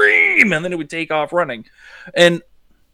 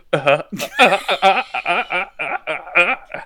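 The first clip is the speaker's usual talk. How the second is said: creepy dolphin chirping. Pretend. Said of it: "that was me speaking in dolphin, but being creepy".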